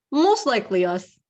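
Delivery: short reply in a put-on Russian accent; attempted Russian accent. Hunter owns up to the kill in an attempted Russian accent. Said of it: "in a thick Russian accent".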